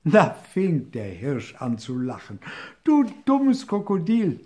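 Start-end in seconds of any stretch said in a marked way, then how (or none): 2.8-4.4 higher, louder laughing jeer; mocking shout. A narrator's reading. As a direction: yell at the fooled crocodile. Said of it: "schrie er". (hoher, lauter Spottruf)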